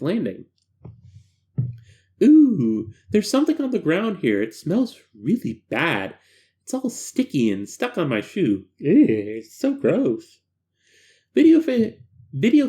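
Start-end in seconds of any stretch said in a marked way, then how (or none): 2.2-10.4 disgusted female subject. Acted. Female subject finds foul substance.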